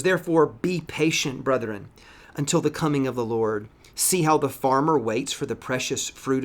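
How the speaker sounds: measured reading of the verses, lifted at the start; scripture reading. Acted. Pastor reads James aloud to his church, measured. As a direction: read the Bible passage to the congregation.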